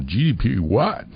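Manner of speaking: a light, slow Texas drawl. Retold or imitated. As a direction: lightly drawl it out like a Dallas lawyer. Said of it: "He said, with a Texas drawl".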